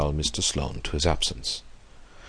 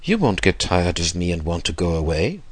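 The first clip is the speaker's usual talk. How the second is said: put-on old gentleman, pitched up then easing; eager old man. Old man begging his companion to stay, lightly voiced and eager. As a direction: press the point as a needy old man. Voices Mister Sloane in narration.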